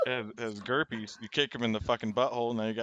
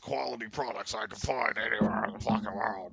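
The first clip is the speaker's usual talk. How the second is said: whispering. Pretend. Alex Jones sales parody.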